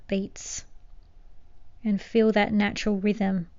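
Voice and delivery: calm meditation guide with long pauses; unhurried, settling guidance, phrase by phrase; guided meditation. Acted. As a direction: gently lead them into stillness.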